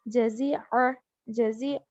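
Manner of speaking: जज़ीअ ending on a throaty Arabic ain; clear ain sound. Shown as a demonstration. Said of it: "आइन की आवाज़". (जज़ीअ में आइन की आवाज़)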